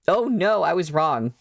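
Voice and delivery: high, loud shocked gasp. Real, not acted. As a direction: react in real shock. Realizes the price in dollars.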